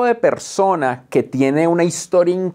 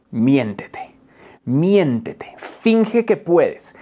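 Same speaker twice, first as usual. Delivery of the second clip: whisper; much slower than usual. Shown as a demonstration. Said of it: "whispered advice to self".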